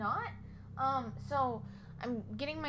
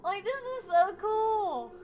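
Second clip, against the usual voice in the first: excited; 8 semitones higher, 5 dB louder, slower than usual. Real, not acted. Unboxing prize.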